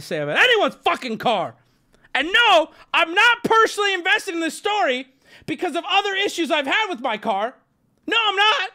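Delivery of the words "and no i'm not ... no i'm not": cracking voice. Real, not acted. Streamer denying he's bitter, voice cracking. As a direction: voice cracking up high in defensive denial. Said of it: "Ignore the voice crack".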